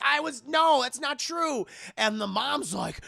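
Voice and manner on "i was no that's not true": high-pitched, urgent protest; protesting denial. Retold or imitated. Anna answers the twins' witch accusation, protesting. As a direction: plead innocence in a raised voice.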